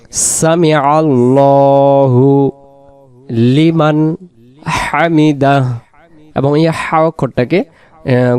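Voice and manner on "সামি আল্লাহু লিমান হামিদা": সামি আল্লাহু with a long heavy "lo"; correct recitation. Shown as a demonstration. Teacher modelling what we will say, slow correct recitation. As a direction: stretch আল্লাহু, then pause before লিমান and হামিদা. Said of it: "এজন্য এই জায়গায় আমরা বলবো".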